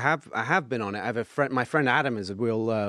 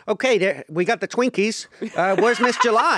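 sleazy guy; 8 semitones higher, 5 dB louder than usual. Retold or imitated. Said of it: "is like".

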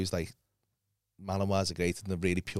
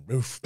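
imitated dog bark. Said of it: "the dog just went".

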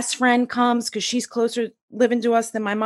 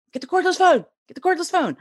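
high-pitched, frantic mock yell; imitated screaming; 9 semitones higher, faster than usual. Freaked-out husband yells to son, high mock scream. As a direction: imitate a panicked husband yelling orders. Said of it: "he just starts screaming".

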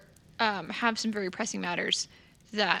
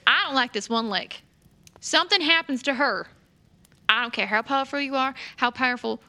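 raised, heated warning that eases toward the end; loud, higher-pitched protective threat; angry shouting; 3 semitones higher, 7 dB louder than usual. Acted. Player character warning the contact about harming her friend, angry. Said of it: "I heard Lila shouting a little bit, getting, getting, getting angry".

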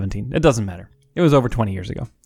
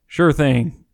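put-on southern accent; 2 semitones higher than usual. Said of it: "I'm trying to do my Matthew McConaughey accent".

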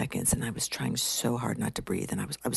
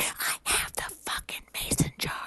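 strained whispery mock wail; tearful exasperation; 4 dB quieter than usual. Crying woman answers colleague's self-help advice, tearful exasperation. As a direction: squeeze it out in breathy, tearful frustration.

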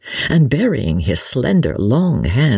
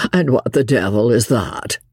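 bland. Acted. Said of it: "asked Sir Percy blandly".

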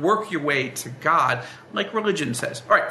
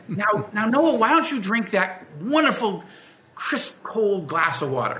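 put-on a sing-song parent sweet-talking a kid; mock-sweet coaxing; 4 semitones higher than usual. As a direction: coax him like it's a treat, drawing out the last words. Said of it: "I said".

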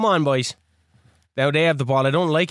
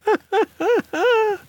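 high exasperated laugh; 13 semitones higher than usual. Real, not acted. Reacts to missed chance.

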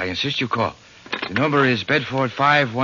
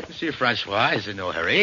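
put-on French accent; 4 semitones lower than usual. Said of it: "You don't have to put on that accent".

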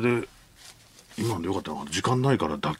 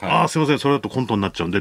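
mock director's note; 3 semitones higher, faster than usual. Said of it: "って言われたし".

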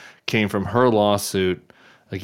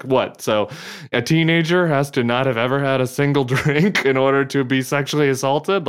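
higher-pitched mock disbelief; retold incredulity; 4 semitones higher than usual. Host voicing baffled police officials to reporter, retold incredulity. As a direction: voice officials balking at the absurd argument.

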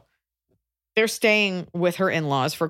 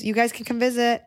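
higher, repetitive placating drone; white-noise refrain; 6 semitones higher than usual. Shown as a demonstration. To nagging in-laws, automatic singsong refrain. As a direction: say it identically, like an automatic loop. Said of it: "treat it like white noise".

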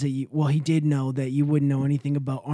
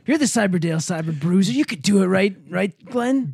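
rising, louder hype-up; egging on; 5 semitones higher, 4 dB louder than usual. Acted. Teammate talking Glenn into the fight, egging on. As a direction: pump them up, pitch climbing to the end.

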